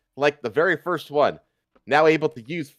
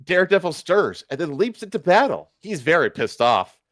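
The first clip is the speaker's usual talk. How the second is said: usual speaking voice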